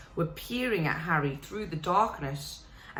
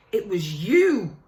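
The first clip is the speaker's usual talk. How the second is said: slow, heavy dawning accusation; slowly; 2 semitones higher, 7 dB louder than usual. Acted. Harry realising Dobby's guilt, slow and accusing. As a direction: let the truth land word by word. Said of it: "he said slowly".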